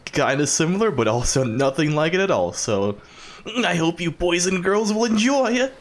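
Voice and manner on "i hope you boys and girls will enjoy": creepy man voice. Pretend. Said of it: "creepy man voice".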